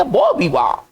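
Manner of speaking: बो विवा as "bo vee-waa"; बो विवा, open vowel at the end; French pronunciation demo. Shown as a demonstration. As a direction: say बो विवा with silent endings. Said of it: "इसको पढ़ेंगे".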